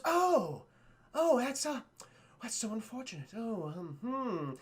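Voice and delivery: stall, with mock sympathy; awkward feigned regret. Jafar learns she wasn't kidnapped, awkward backpedaling.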